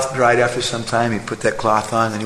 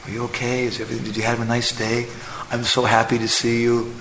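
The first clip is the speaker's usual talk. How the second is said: soft, sweet wifely care; sweet words; 4 dB quieter than usual. Retold or imitated. Wife comforting her tired husband, soft sweet words. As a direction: coo gently to him. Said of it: "she spoke some sweet words".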